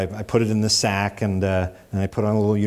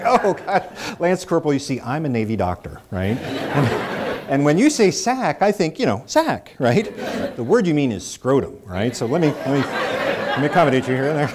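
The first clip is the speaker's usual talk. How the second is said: laughing explanation; 5 semitones higher than usual. Retold or imitated. Mock-earnest explanation, laughing.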